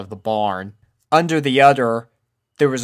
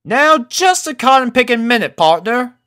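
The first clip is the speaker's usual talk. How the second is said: Applejack drawl; 13 semitones higher, 7 dB louder than usual. A narrator's reading. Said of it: "started Applejack".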